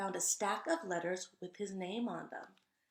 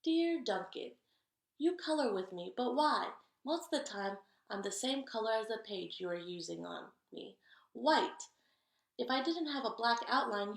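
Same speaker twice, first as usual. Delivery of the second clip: louder, wistful forgotten crayon; lonely white crayon; 3 semitones higher, 4 dB louder than usual. Acted. White Crayon tells Duncan it feels empty, a touch louder. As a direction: sound left out and empty.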